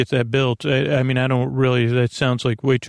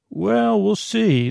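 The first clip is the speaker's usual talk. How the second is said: playful high tease; 8 semitones higher, slower than usual. Pretend. Teasing answer to visitor.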